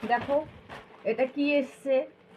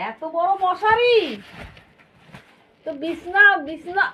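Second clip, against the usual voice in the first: amazed; 4 semitones higher, 3 dB louder than usual. Real, not acted. Amazed at big net.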